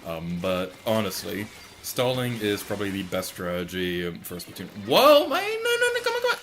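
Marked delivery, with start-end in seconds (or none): 4.9-6.4 high, loud pleading yells; excited yelling. Real, not acted. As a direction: urge the game on, shrieking. Tense finish of the match.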